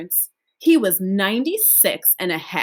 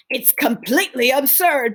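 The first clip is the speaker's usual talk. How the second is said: whisper; 5 semitones higher than usual. Acted. Grandpa Joe marvels.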